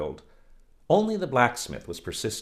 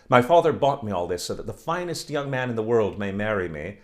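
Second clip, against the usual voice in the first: louder, showing off; boastful coquette; 3 semitones higher, 6 dB louder than usual. Acted. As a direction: flaunt herself to the village boys. Oksana boasting to imagined boys.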